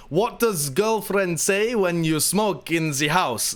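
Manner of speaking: lightly imitated Latvian accent, slow; Marilyn's accent. Quoting Marilyn's question from the video, light Latvian accent. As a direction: slowly mimic a Latvian friend's broken English. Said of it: "this is Marilyn. The person who asks".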